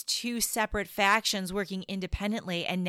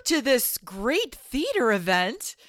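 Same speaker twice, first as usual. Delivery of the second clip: sly tempting voice; 6 semitones higher, 3 dB louder than usual. Pretend. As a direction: dangle the tickets like bait. Co-host voices Stewart tempting Hyde.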